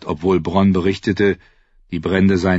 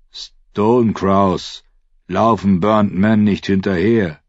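haughty wildling; 4 dB louder, slower than usual. Acted. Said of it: "entgegnete einer der Wildlinge hochmütig".

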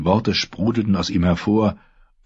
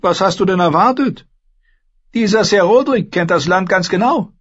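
much higher, louder sister lecturing her brother; Asha, cool and scornful; 13 semitones higher, 5 dB louder than usual. Acted. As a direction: talk down to him, sharp and sure. Narrator voices Asha.

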